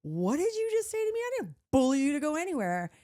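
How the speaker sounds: hammed-up furious girlfriend; monster voice. Retelling the argument with her boyfriend, a hammed-up outraged screech. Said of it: "I turned into a monster".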